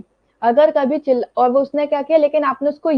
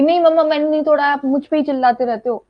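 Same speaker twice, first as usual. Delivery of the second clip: put-on child snapping back at mom, a touch louder; mild mock retort, the wrong way to answer; talking back; 3 semitones higher, 3 dB louder, faster than usual. Shown as a demonstration. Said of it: "आप ये चीज नहीं करोगे".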